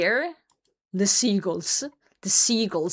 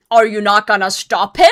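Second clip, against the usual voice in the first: loud, indignant challenge to the parents; angry demand; 9 dB louder than usual. Retold or imitated. Telling off the parents at the beach, loud and angry. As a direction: confront the parents, furious.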